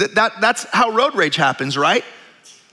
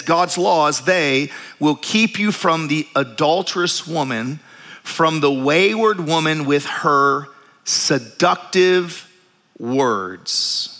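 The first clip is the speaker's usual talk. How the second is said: scripture reading; 3 semitones lower, slower than usual. Acted. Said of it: "reading Proverbs aloud".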